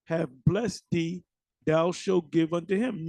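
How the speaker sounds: halting, deliberate verse reading; scripture reading. Acted. Preacher quotes the verse the movie drew on, measured scripture reading. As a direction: read the verse out in measured phrases.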